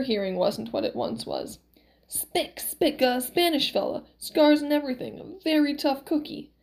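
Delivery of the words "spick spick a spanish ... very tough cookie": lightly voiced old miracle man; a touch of exasperated old man; Max correcting. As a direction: impatiently set the misheard word straight. Max corrects his wife's mishearing.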